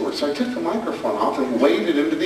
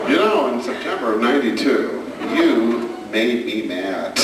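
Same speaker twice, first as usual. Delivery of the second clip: laughing mock grudge; 4 semitones lower than usual. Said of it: "we'll bring it up seven years later".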